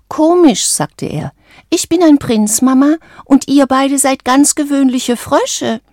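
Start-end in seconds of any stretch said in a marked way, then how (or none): 0.1-0.7 high, wondering frog voice; puzzled little frog. A narrator's reading. Frog prince musing at dinner with his parents, high puzzled voice. 1.7-5.8 put-on high, self-important young frog; boastful little frog. A narrator's reading. Frog prince addressing his ordinary parents, high boastful voice.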